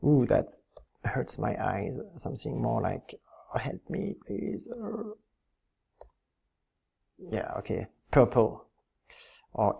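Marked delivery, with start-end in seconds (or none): 3.5-5.1 high whispered plea for help; breathy mock cry for rescue; fluttering cries for help. Mock plea while picking ugly colors.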